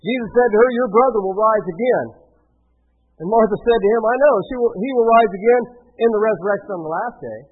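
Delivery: projected, steady Bible reading; scripture reading. A narrator's reading. Preacher reads Martha's meeting with Jesus to the congregation, projected scripture reading. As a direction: read the passage out clearly to the room.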